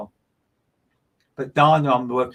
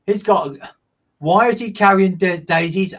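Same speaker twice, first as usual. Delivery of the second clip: higher, louder sudden puzzlement; puzzled surprise; 6 semitones higher, 7 dB louder than usual. Real, not acted. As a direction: caught off guard by a strange image. Medium puzzled by vision.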